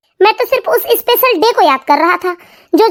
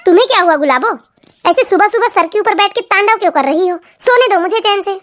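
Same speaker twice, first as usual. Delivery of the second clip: lightly lowered, drowsy husband voice; sleepy husband. Acted. Husband woken too early, grumbling at his wife.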